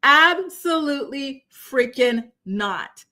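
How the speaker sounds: slow, lightly voiced Killmonger swagger; a light imitation of a cool villain, slowed right down. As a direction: drag it out like a smug movie villain, only a hint of the character. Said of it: "Let me say this in my Killmonger voice".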